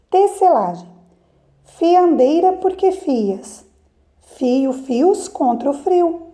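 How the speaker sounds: put-on slow, measured verse recital for children; lilting questions, settled answers; poem reading. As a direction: read each line slowly, pausing between verses. Reads a poem to class.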